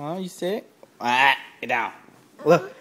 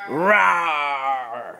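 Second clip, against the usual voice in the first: lion roar. Pretend. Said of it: "King of the jungle".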